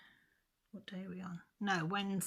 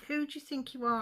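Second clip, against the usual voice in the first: higher and louder, reliving the fury at the nurse; retold furious outburst; 8 semitones higher, 6 dB louder than usual. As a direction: snap it back at her like you did that day. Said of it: "Well, I lost it".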